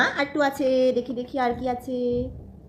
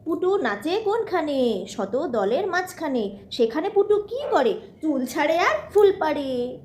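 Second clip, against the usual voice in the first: reciting nursery rhyme. Acted. Mother reciting rhyme to toddler.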